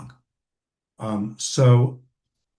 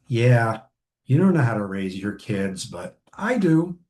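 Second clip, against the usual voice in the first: smug know-it-all. Retold or imitated. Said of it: "with that tone of voice".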